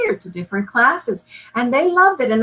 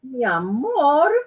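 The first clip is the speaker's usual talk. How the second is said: gentle mother; 4 semitones higher, slower than usual. Acted. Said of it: "said Mama".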